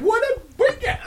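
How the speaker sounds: high, laughing Belfast greeting; Jim McDonald impression. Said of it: "He said".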